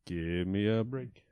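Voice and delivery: slow, drawn-out ad tagline; sing-song it like an ad; mock ad jingle. Mock ad slogan for the spider break, slow and drawn out.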